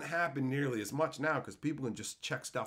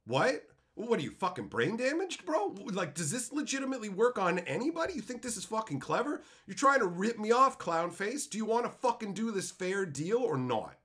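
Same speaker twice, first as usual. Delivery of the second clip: worked-up retold challenge, rising in pitch; indignant confrontation; 5 semitones higher than usual. Trader confronting someone trying to rip him off, indignant confrontation. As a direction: act out fed-up disbelief at a cheat.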